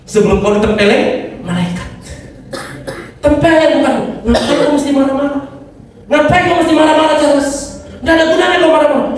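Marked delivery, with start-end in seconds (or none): 3.2-9.1 mock self-scolding. Scolding himself as angel would.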